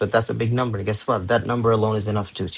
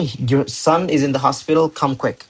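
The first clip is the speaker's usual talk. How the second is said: higher-pitched mock urgent message; quick, to the point; 4 semitones higher than usual. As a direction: get straight to the news, pitched up. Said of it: "you say that quick".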